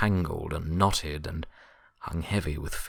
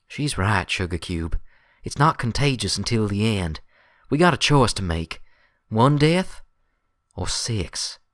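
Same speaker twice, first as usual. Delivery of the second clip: louder, higher Applejack voice, building to a hard point; grim country mare; 5 semitones higher, 6 dB louder than usual. Acted. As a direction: lay out the choice plainly and firmly. Applejack backs Twilight.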